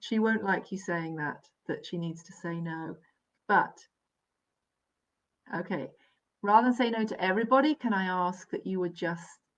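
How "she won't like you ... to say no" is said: usual speaking voice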